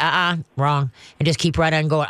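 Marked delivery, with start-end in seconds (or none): 0.0-0.9 stern correction. Shown as a demonstration. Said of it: "shake it".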